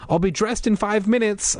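high call upstairs to Josh. A narrator's reading. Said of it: "I called to Josh".

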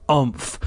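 short straining grunt; effort grunt. Acted. Sister tugging at the mask, effort grunt. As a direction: grunt with a tug.

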